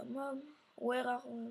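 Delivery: slow English with a French accent. Real, not acted. Player reads the game's English dialogue, slow French accent. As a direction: read it slowly in rough French-accented English. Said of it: "mon accent anglais est un peu pourri".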